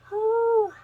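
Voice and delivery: a big, high, loud whooshing exhale; loud overwhelmed whew. Real, not acted. Tarot reader overwhelmed by a card, loud high whew. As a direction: blow it out hard, as if overwhelmed.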